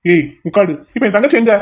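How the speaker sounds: demanding shout; angry demand. Acted. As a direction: bark the question at him. Demands sister's whereabouts.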